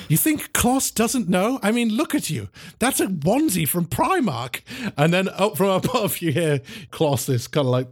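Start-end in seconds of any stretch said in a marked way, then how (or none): 0.1-4.6 scolding agent. Acted. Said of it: "she's like".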